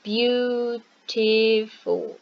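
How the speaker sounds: "beautiful" stretched out slowly, each syllable clear; slow example word. Shown as a demonstration. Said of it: "For example".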